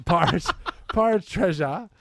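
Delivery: reading through laughter; giggling mid-sentence; laughing. Real, not acted. Laughing while reading list.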